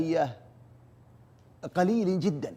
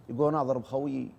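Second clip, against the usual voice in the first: normal talking voice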